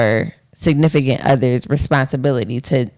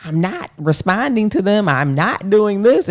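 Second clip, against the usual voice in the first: mildly passive-aggressive, higher-pitched mimicry; 6 semitones higher than usual. Partner mimicking how he avoided speaking up, passive-aggressive. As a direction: imitate pointed, indirect refusal with a lifted pitch. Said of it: "this more passive aggressive".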